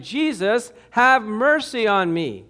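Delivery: crying plea. Acted. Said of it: "a skeleton crying".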